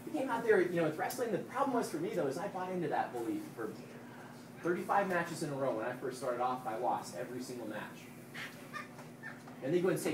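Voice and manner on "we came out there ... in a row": loud, rising fired-up pep talk; halftime pep speech. Real, not acted. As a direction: pump up the team, almost shouting. Pep talk to championship team.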